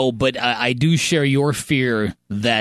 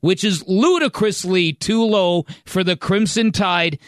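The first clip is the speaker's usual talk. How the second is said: reading a column aloud; 5 semitones higher than usual. Acted. Host reads column's complaint about ranking, emphatic read-aloud. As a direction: read the line straight through, with emphasis. I wanna read you a story.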